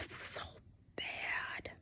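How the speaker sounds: very quiet, breath-only groan of disappointment; real dismay, barely voiced; dejected sigh. Real, not acted. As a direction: sigh out heavily, then whisper it. Sighing over bad weigh-in.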